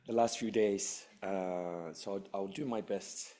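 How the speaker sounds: losing her voice, hoarse and worn. Real, not acted. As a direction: speak through a failing, rough voice. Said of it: "excuse my voice".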